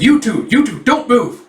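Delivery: high barking order to freeze; police shout. Acted. Officer yelling at the couple to freeze, loud and high. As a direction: yell it like a cop with a gun drawn.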